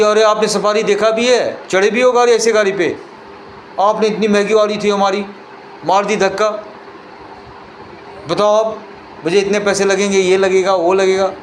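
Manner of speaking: arrogant scolding. Acted. Proud Safari owner berates the man who dented it, haughty and indignant. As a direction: scold him like a puffed-up new car owner.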